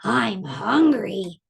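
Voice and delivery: slow, lightly voiced troll; hungry troll. Troll gnashes teeth, slow and hungry. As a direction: draw out the hunger menacingly. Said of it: "gnashed his teeth and said".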